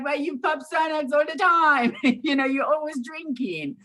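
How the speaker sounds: high, loud accusing voice; mocking critic. Imitating critics who say she is not in recovery, high and loud. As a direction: throw it at her like an accusation. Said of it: "But they're like".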